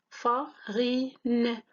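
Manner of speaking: FARINE broken up as "fa - ri - ne"; split into syllables. Shown as a demonstration. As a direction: say farine in three separate beats, "fa, ri, ne". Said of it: "trois syllabes". (farine découpé en syllabes, « fa - ri - ne »)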